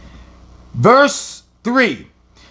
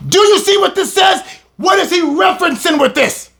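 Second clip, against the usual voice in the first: excited questions; 8 semitones higher, faster than usual. Real, not acted.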